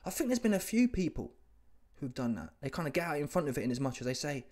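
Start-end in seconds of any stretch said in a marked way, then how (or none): none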